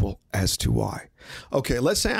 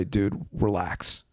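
calm relax; 4 semitones lower, 3 dB quieter, much slower than usual. Retold or imitated. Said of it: "he should say".

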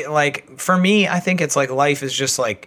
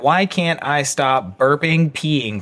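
reading a search list; slower than usual. Retold or imitated. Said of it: "So it's like".

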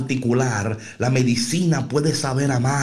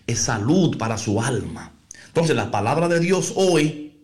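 normal talking voice

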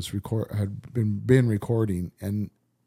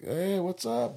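lightly raised, soft friendly greeting to a dog; talking to a dog; 8 semitones higher, 4 dB quieter, slower than usual. Retold or imitated. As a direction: greet the dog like a puppy lover.

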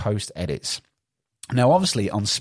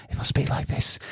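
near-whisper to show off the new mic; breathy hush close to the mic; speaking softly. Shown as a demonstration. Host demonstrating his new mic to listeners, speaking in a near-whisper. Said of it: "it might sound a little bit different".

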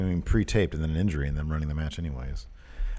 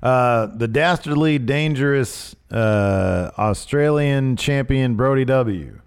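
mock ring intro; 5 semitones higher, 7 dB louder, slower than usual. Hammed intro of a fan name.

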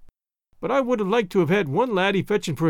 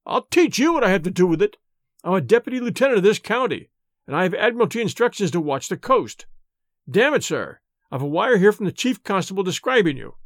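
blustering, raised officer's voice; angry officer. Acted. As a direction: bluster at the stranger. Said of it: "This made him angry, and he began to stammer".

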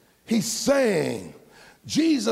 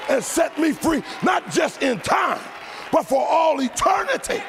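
building preached climax; 4 semitones higher than usual. Acted. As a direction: build it up to a shouted cry about eternity.

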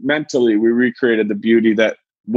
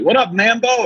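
cocky greeting; 9 semitones higher than usual. Retold or imitated. Greeting teacher by nickname.

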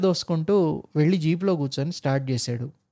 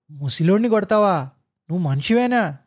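angry roar. Acted. Driver roars at officer for hitting old man. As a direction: roar at the bully. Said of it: "మరోసారి గర్జించాడు".

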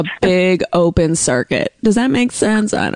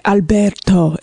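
put-on Euro accent; slower than usual. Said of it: "full on with a Euro accent".

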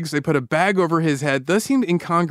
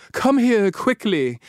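raised, mildly urgent retold call; 4 semitones higher, much slower than usual. Woman calls the narrator over, retold calling out. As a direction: lightly imitate someone calling you over. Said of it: "she called out".

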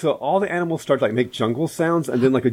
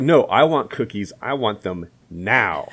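put-on slow whining spoiled kid; whiny brat; 4 semitones lower, slower than usual. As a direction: demand it like a spoiled child. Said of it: "that girl's like".

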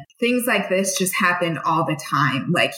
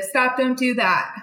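higher, giggly cutesy protest; 7 semitones higher than usual. Retold or imitated. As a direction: brush it off sweetly and playfully. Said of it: "Kind of cutesy".

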